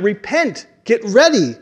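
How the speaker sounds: John calling out to the crowd. Acted. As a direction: urge them to get ready. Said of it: "he's calling out".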